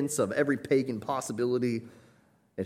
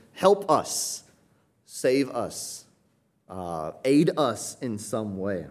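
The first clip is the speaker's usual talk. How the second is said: crying out; 4 dB louder, much slower than usual. Retold or imitated. Crowd crying out to the king, mild raised plea. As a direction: call out to the king for rescue. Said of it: "They're crying out to the king".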